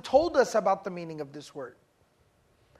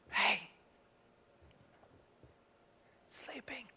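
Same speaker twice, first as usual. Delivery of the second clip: hushed classmate, much softer; whisper; 13 dB quieter than usual. Retold or imitated. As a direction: sneak it out under your breath in class.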